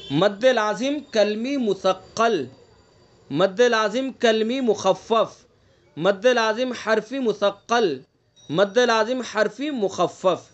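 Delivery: slow, deliberate naming of each term, لازم stressed; careful naming. Shown as a demonstration. Teacher listing terms slowly for students to repeat. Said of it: "صحیح تلفظ کرنا ہے ان کا".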